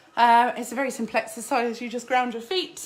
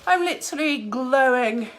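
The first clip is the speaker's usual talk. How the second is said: breathless after a workout; panting between words; out of breath; 7 dB louder than usual. Real, not acted. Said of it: "I'm so out of breath right now".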